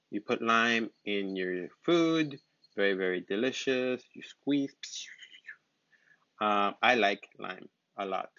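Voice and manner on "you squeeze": whisper. Real, not acted. Whispered aside in lesson.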